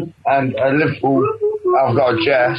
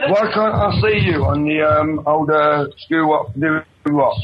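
tipsy late-night caller; slower than usual. Real, not acted. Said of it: "when I'm really fucking drunk".

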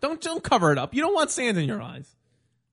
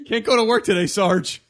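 whiny recruit; 7 dB louder than usual. Pretend. Mock recruit excuses.

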